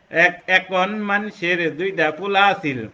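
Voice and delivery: Dhaka dialect. Shown as a demonstration. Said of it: "আমি যখন ঢাকাতে যাব".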